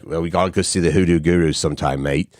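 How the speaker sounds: lightly put-on Australian accent; a rough attempt at an Australian accent. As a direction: imitate an Aussie mate, not very convincingly.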